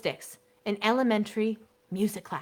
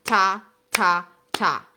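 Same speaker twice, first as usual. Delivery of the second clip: louder classroom call of rhythm; louder teacher calling ta ta; 6 dB louder than usual. Shown as a demonstration. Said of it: "If I ever say".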